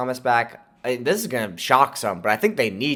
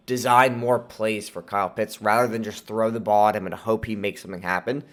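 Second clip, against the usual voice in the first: nasally, sore-throat voice; 2 semitones lower than usual. Real, not acted. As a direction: talk through a bad throat, nasally. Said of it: "sorry if I sound a little bit nasally".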